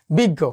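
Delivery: বিজ্ঞ said as big-go, with a doubled g; doubled g sound. Shown as a demonstration. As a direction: hold the g in বিজ্ঞ before releasing it. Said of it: "এর মতো হবে।".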